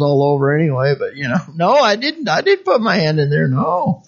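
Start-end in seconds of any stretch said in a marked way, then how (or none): 1.5-4.0 mock child denial. Child denying cookie theft.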